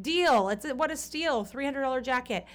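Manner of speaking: high, eager deal-taking voice; mock delighted. To the shopkeepers, mock thrilled at the price. Joking she'd pay the price.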